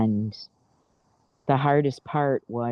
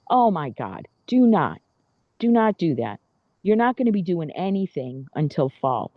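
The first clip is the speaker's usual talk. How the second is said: alarmed doctor; 5 semitones higher than usual. Retold or imitated. Retelling the doctor's reaction to her mowing, a mock alarmed warning. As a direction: play the doctor, shocked and forbidding it. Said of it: "He's like".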